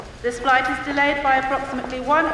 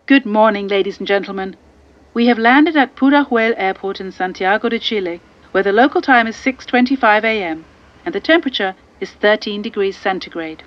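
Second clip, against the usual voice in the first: pilot announcement; 5 semitones lower, 5 dB louder than usual. Acted.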